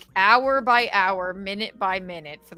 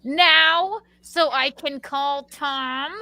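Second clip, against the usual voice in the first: exasperated retort; 7 semitones higher, 5 dB louder than usual. Retold or imitated. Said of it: "I'm like".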